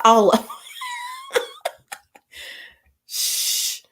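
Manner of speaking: normal talking voice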